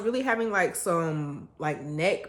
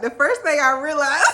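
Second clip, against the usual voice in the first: laughing; 10 semitones higher, 8 dB louder than usual. Retold or imitated. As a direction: quote breaking up into high laughter. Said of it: "I'm over here cracking up".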